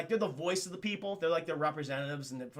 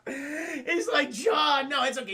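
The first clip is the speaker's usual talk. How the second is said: laughing while talking; 7 semitones higher, 4 dB louder, slower than usual. Real, not acted.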